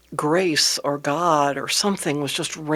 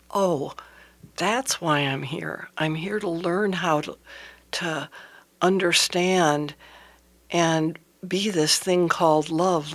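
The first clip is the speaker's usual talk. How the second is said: inner realization. Retold or imitated. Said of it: "I had this aha".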